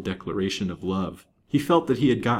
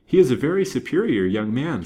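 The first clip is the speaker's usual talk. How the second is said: higher, louder cordial praise; 6 semitones higher, 6 dB louder than usual. A narrator's reading. Banker praising the young lawyer to his daughter, cordial. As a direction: praise him cordially, with raised pitch.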